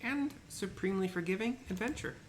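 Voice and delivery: ancient rasping undead king. Acted. Voices pompous merchant.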